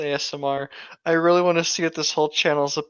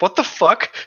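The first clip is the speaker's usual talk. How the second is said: laughing disbelief; 5 semitones higher, 6 dB louder than usual. Retold or imitated. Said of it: "my one friend ... was just like".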